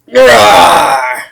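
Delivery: big loud monster roar; Bowser roar. Pretend. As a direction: roar out like a giant beast. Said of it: "I was channeling my inner Bowser".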